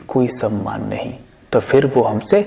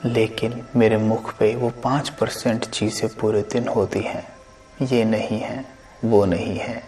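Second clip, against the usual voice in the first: guided meditation. Acted. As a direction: lead listeners gently inward, unhurried.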